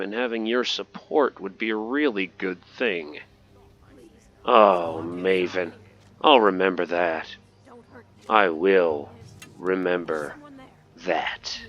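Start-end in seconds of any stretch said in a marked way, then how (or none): 4.5-11.6 low, deliberate threat with long pauses; mock menacing. Player warns Maven after her refusal, low mock menace. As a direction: lower the voice and space out each phrase.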